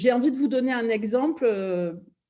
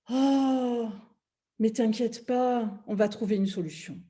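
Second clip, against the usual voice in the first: gently soothe, imitating the kind partner; reassuring partner. Partner comforting her about the ruined car, reassuring. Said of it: "j'ai trouvé un accueil tellement différent".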